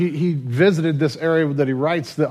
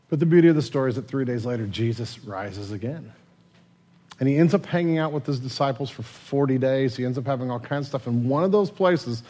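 usual speaking voice

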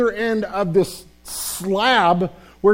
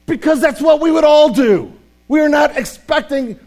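louder and higher, near a shout; preaching shout; 6 semitones higher, 5 dB louder than usual. Real, not acted. Pastor to congregation, rising into a full preaching shout. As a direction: hammer the point home to the room. Preacher driving point home.

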